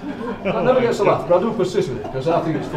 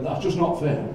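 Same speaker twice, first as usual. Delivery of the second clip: a lightly voiced pirate grumble, much softer; quiet mock-pirate complaint; 8 dB quieter than usual. Offended postman in the front row, in a soft half-hearted pirate voice. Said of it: "he went".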